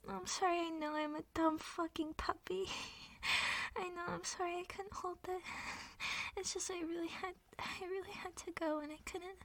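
shaky, weepy apologies, on the edge of tears; tearful apologizing. Acted. Embarrassed pet apologizing to her partner, tearful. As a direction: plead through tears, ashamed.

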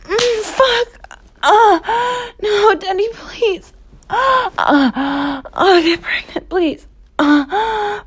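staged panicked pleading; acted distress. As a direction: cry out and plead through sobs. Roleplayed distress, begging to stop.

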